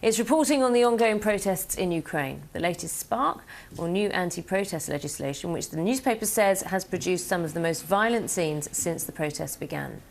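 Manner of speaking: measured newsreader delivery; news read. Real, not acted. Anchor to world news viewers with the top stories, news read.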